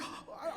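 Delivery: soft gasp of imitated shock; mock stunned gasp. Guard hears a kid demand a warrant, stunned gasp. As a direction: gasp as if your system is malfunctioning. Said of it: "he's, like, having a meltdown".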